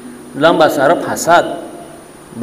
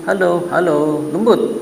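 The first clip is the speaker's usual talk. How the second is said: soft sweet phone voice; 4 dB quieter, slower than usual. Retold or imitated.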